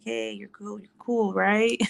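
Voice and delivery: gently calm him down, almost under the breath; soothing whisper. Retold or imitated. Calming son during nose swab.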